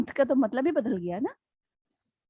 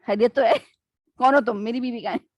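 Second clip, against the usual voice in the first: alarmed husband; 3 dB louder than usual. Retold or imitated. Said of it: "میاں تو tension میں آ جاتے ہیں".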